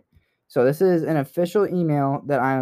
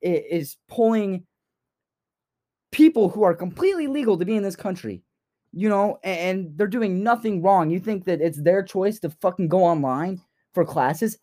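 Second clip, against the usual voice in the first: impassioned rant; 5 semitones higher than usual. Real, not acted. Passionate rant about deportations.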